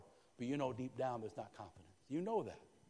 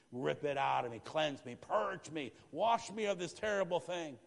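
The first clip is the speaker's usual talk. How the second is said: pleading cry; 3 semitones higher, 6 dB louder than usual. Pretend. Voicing David's plea.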